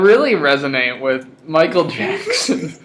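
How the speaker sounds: speaking through laughter; laughing. Real, not acted. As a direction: giggle through the line. Laughing while joking.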